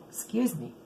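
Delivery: rough throaty morning voice. Real, not acted. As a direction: voice not warmed up yet. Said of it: "I don't have my morning voice yet".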